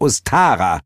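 high, portentous character voice; Heel's first naming. Acted.

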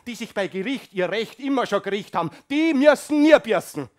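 loud, indignant tirade; old man grumbling at politics; angry rant. Acted. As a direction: rail against the rich.

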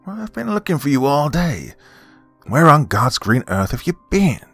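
put-on high, cross old grandmother; snapped grandmother. A narrator's reading. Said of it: "she snapped, her face contorting".

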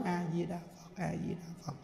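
barely audible, low recitation; fully softened heart. Shown as a demonstration. Teacher demonstrating calm under blows, hushed gentle chanting. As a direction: chant very softly, with the heart completely calmed. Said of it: "Dịu hoàn toàn cái tâm xuống".

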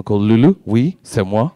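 put-on a seductive French perfume-ad murmur, French accent; hammed-up French accent, ad voiceover; mock French accent. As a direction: purr it like a French aftershave model.

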